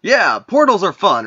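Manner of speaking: upbeat and breezy; cheerful. Acted. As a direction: say it brightly. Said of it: "He says".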